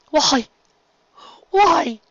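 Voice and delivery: over-the-top friendly serpent duke; flamboyant sea serpent. Acted. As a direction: gush like a warm, showy nobleman. Serpent aghast.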